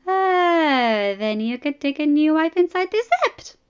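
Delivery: exclaiming. Acted. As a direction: burst out as if struck by a bright idea. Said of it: "the princess exclaimed".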